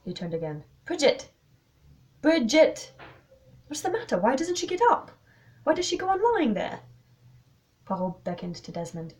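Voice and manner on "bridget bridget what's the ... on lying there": high, loud, rising alarm; pitched-up, urgent calling. Acted. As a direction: call out and demand answers in growing panic. Calling to motionless girl.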